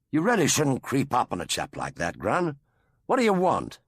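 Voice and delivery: doctor startled when grabbed by Grun; startled indignant doctor. A narrator's reading. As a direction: snap round, startled but polite.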